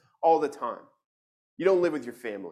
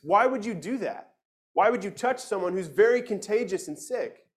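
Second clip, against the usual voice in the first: higher, baffled pleading with Jesus; incredulous questioning; 5 semitones higher than usual. Pretend. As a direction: ask him as if you cannot believe it. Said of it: "where we should be saying".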